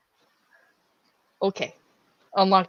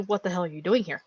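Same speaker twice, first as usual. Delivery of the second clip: wondering; 10 dB quieter, faster than usual. Acted.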